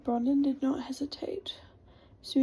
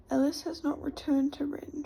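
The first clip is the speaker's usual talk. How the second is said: whispered. Acted. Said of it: "she whispered".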